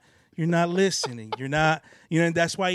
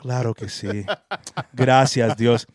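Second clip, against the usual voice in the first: put-on old school prayer murmur; 6 semitones lower, 8 dB louder than usual. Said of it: "you hear 'em going like".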